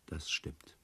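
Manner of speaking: a quiet whispered admission. Acted. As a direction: say it under your breath. Quiet confession in a dialogue.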